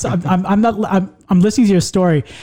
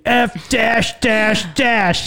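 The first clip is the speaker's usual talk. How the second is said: slow, spelled out; 5 semitones higher, much slower than usual. Shown as a demonstration. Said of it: "I didn't say the actual word".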